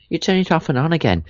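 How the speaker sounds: attempted Irish accent, pitched high. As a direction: have a go at a bad Irish accent. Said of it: "say it in an Irish accent".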